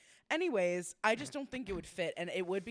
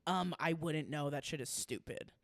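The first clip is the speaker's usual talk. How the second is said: low, dismissive mock scoff; retold scoff, dropped low; 5 semitones lower than usual. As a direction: imitate a dismissive skeptic, unimpressed. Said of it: "scoffing at me".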